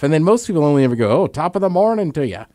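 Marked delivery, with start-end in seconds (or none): 1.2-2.4 light put-on Irish lilt; stock Irish accent. Showing co-hosts what most people attempt, stock Irish accent. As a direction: do a token stage Irish greeting. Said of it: "but Irish is tough".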